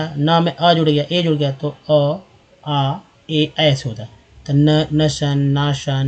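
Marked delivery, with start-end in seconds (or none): 4.5-6.1 नशन with short a, नाशन with long aa; trial pronunciations. Shown as a demonstration. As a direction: try नशन, then नाशन, vowel by vowel. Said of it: "नशन नहीं उच्चारण होगा". (नशन और नाशन, स्वर बदलकर)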